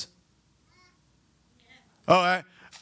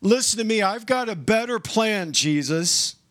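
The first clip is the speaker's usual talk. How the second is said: insistent Peter; 4 semitones higher than usual. Retold or imitated. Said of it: "Peter says".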